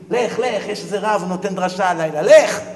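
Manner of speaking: insistent urging. Acted. Wife sends her husband off to the lecture, insistent. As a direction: shoo him off, last word punched loud.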